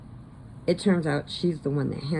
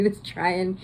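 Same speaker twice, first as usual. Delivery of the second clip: high, slow words dissolving into laughter; real laughter taking over the voice; laughing while talking; 5 semitones higher, 4 dB louder, slower than usual. Real, not acted. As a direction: crack up as the sentence ends. Laughing as she recalls the accent.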